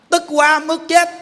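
hammed-up furious outburst; mock fury. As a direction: stretch it out like fury boiling over. Anger that kills, acted.

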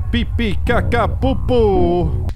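high, loud silly alien babble; mock alien talking out of its ass; alien gibberish. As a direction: make nonsense alien noises. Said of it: "genuinely talking out of their ass".

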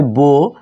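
বো as one open syllable, long vowel; first syllable বো. Shown as a demonstration. Teacher splitting the word for learners, বো sounded out alone. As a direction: sound out বো on its own. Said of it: "বিওতে কি হয়".

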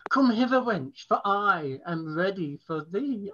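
theatrical verse recital with pitch swells; mock-medieval poem. Poet performing a bawdy medieval poem from memory, mock-grandly. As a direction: declaim it as bawdy olde-worlde verse.

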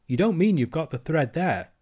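put-on a boy who can't quite believe it; mild surprised disbelief; incredulous Curdie.

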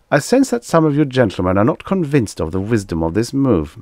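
high, piping diplomat's voice. A narrator's reading. Magnan addressing doubtful warriors at the table, piping. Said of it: "he piped".

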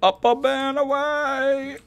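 sing-song. Acted. Playful jumping call.

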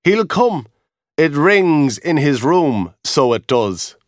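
a lightly voiced guard, confident. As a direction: reassure him it's fine. Guard reassuring narrator.

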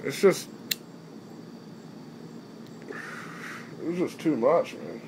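talking around a lit cigarette; slow words past a cigarette; cigarette in mouth. Real, not acted. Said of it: "let me light my cigarette again".

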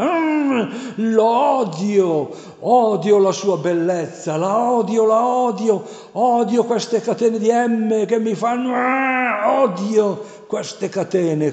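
high, loud demonic shriek of hatred; demon screaming. A narrator's reading. Devil screaming his hatred at the exorcist priest, high shriek. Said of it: "lui urla".

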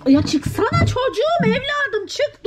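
high, drawn-out plea; fed-up high whine; exasperated pleading. Real, not acted. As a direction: beg the pets to get out, stretching the words. Shooing pets out of cupboard.

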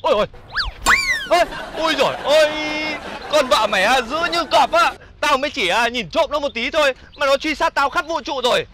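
high-pitched, dramatic lament; aggrieved wailing. Acted. Man complaining to friend about his fierce wife, aggrieved wailing.

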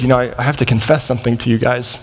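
low, hesitant admission; embarrassed confession. Retold or imitated. Man confessing something to the two guys, mildly embarrassed. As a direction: stumble lightly into an embarrassed confession. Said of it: "got kind of embarrassed".

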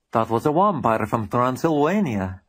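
put-on heavy Transylvanian accent, W for V in vampire; mock Transylvanian accent on vampire; thick Transylvanian accent. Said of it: "in words thicker than the creature's own".

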